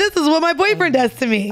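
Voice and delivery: plain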